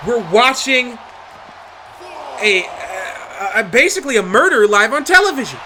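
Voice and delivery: live ringside play-by-play, rising hype; wrestling commentator. Acted. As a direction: call the action like a ringside announcer.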